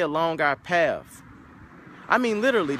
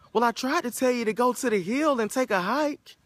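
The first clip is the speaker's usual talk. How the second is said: knowing cab driver; 9 semitones higher than usual. Acted.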